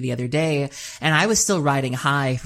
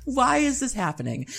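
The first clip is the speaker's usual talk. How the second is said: disbelief; 10 semitones higher, slower than usual. Retold or imitated. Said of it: "And I was just like".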